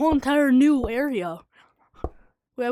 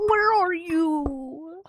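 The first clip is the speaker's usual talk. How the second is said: laughing; 5 semitones higher, much slower than usual. Real, not acted. Laughing call.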